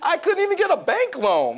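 loud, high-pitched, impassioned; emphatic insistence. Real, not acted. Interviewee insisting nobody would invest in him, emphatic and loud. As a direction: cut in and drive the point home hard.

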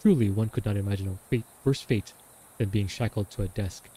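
dramatic diary reading. Acted. Reads the diary aloud.

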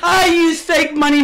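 taunting sing-song. Acted. Taunting rival in argument.

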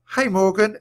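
high, loud called hello; calling out. A narrator's reading. Annie hails the enchantress, calling out. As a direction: call a greeting from the shore. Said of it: "Annie called".

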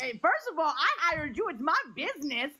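high, laughing mock reprimand; playful boss laughing while scolding. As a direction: tease the employee through a laugh.

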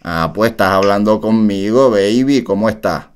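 low-key flirty star voice, barely changed; impression of a singer. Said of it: "Esa no es la voz de Lunay".

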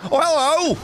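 high, bright-eyed hello to a foe; squeaky mock greeting. Teasing an orc who blocks his way, in a high falsetto. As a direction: greet the enemy in a sudden falsetto.

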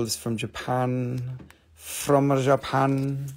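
broken English in a put-on Chinese accent; host slipping into a mock Chinese accent to sell garnets. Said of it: "I slip into my Chinese accent".

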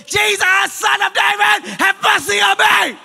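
high, loud, slow cry for mercy; desperate shout. Acted. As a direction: cry out with all your voice. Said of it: "hears this voice from far away".

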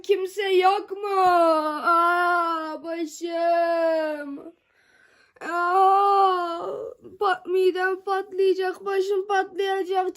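loud wailing cry for help; crying out in pain. Pretend. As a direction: howl like your head is splitting. Calling for help, pretend pain.

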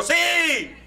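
high, small yes; timid boy's yes. Retold or imitated. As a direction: answer like a shy little boy. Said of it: "Y yo".

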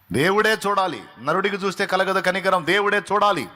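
high, loud insistent preaching; preaching at full force. Acted. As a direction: drive it home with conviction. Pastor urging the congregation.

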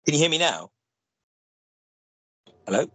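usual speaking voice

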